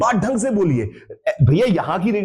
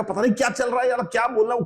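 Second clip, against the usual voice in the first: fast, slightly softer muttering; confused brain voice; 4 semitones higher, 3 dB quieter, much faster than usual. Retold or imitated. Teacher voicing a student's confused brain, fast and soft. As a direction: rattle it off like a muddled mind. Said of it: "वो कहेगा".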